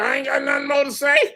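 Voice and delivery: high, fast shouted sulk; mock attorney. Mocking the attorney giving up, shouting. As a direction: ham up her defeated huff. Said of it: "And she said".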